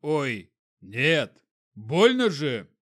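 rising yelp of pain; pained cry. A narrator's reading. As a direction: cry out as it starts to hurt. Inquisitor bitten in sleep.

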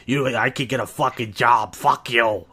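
mock wasted caller cursing; hammed-up drunken slurring rant; slobbering drunk imitation. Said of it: "when he was slobbering? He was really wasted".

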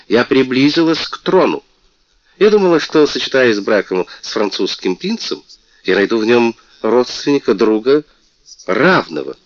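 высокий, звонкий голос обиженной принцессы; жалуйся, как оскорблённая принцесса; мультяшная принцесса. Acted. Принцесса жалуется королю. (принцесса жалуется королю, звонко и обиженно)

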